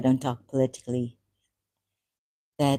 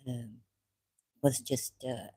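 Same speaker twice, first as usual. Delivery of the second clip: normal talking voice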